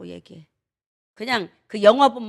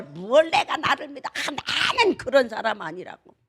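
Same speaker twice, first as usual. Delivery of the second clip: indignant protest. Acted. Acts out a self-trusting person protesting.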